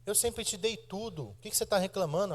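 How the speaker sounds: high-pitched, indignant retort, mock-quoting; arguing mother. Hairdresser scolding her grown daughter, high and indignant. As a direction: throw it back at her like a hurt mother mid-fight. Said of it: "discutindo com a filha dela".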